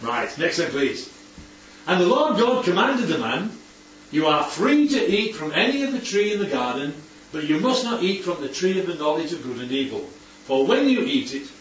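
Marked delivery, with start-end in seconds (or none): 1.9-10.1 measured, emphatic Bible reading; scripture reading. Acted. Teacher reads God's command to Adam, emphatic scripture reading. 10.5-11.5 "when" picked out above the rest; stress on WHEN. Shown as a demonstration. Teacher reads the verse to the group, stressing "when". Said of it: "I've emphasised the word "when".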